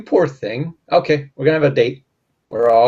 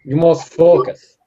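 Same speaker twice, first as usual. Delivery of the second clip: put-on slow Russian-accented command; 2 semitones higher, 4 dB louder, slower than usual. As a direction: give a stern order in a Russian accent. Coaching the partner's Russian accent.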